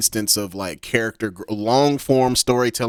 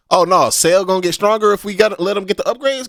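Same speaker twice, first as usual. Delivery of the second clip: higher-pitched, animated mock Vegeta; cocky Vegeta quote; 9 semitones higher, 4 dB louder than usual. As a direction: egg them on in a high, excited voice. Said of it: "he just be like".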